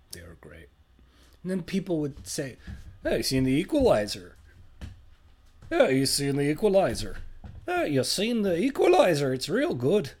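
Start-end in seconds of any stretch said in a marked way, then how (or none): 0.1-0.7 unvoiced secretive whisper. Sudden whisper. 3.0-10.1 lightly mocking sing-song mom voice; exaggerated cartoon intonation. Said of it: "Why are you talking like that, Mom?".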